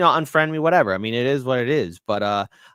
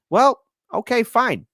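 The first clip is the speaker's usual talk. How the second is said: high, loud dismissive well okay fine; mock resignation, tossed off; sarcastic fine to a friend who walks away; sarcastic shrug; 13 semitones higher, 7 dB louder than usual. Mock reply to estranged friend.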